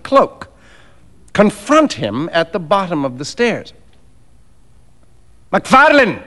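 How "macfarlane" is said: high, ringing call of a name; somewhat loud hail. A narrator's reading. Fettes hailing the doctor on the stairs, somewhat loudly. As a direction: call it out like a herald, not a friend. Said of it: "he said somewhat loudly".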